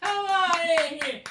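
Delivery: put-on high, goofy, childlike bird voice; Big Bird voice. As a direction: squeeze through the door as the giant bird. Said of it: "It's Sesame Street's Big Bird".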